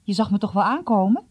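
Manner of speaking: quick, upbeat teasing call; boy teasing his friend, cheerful and quick. Acted. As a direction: tease his friend brightly. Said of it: "riep Jom vrolijk".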